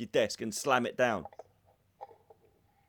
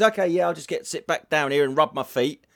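louder mock compliance; imitated funny comeback; 2 semitones higher, 5 dB louder than usual. Paul answering back to his boss, funny mock compliance. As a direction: give in loudly, for comic effect. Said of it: "it was really funny how he said it".

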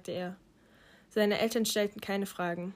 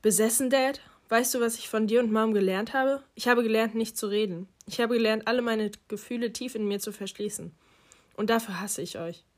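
louder, accusing and bitter; imagined bitter retort; 3 dB louder than usual. Retold or imitated. Son accusing his parents of teaching silence, louder and bitter. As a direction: throw the word back at him. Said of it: "Ich stellte mir meine Entgegnung vor".

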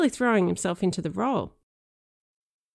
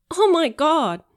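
loud, laughing disbelief; laughing exclaim; 10 semitones higher, 7 dB louder, slower than usual. A narrator's reading. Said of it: "I laughed".

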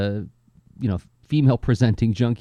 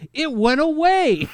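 laughing disbelief; 13 semitones higher, slower than usual. Real, not acted. Amused disbelief about old TV.

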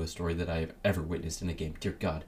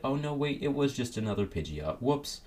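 higher, light mock dismay; mock surprise; 6 semitones higher than usual. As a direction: play a sheepish little oops. Mock player reaction.

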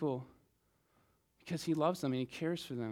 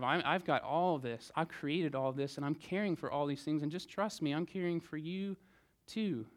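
gentle voice of Jesus. Acted. Voices Jesus comforting listeners.

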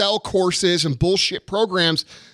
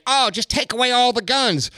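lightly higher, mock-naive tone; mocking liberal voice; 4 semitones higher than usual. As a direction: parody the gun-control crowd. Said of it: "liberal motherfuckers saying".

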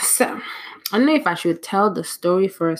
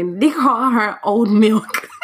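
laughing; 4 semitones higher, 4 dB louder, slower than usual. Real, not acted. Cracking up at the clip.

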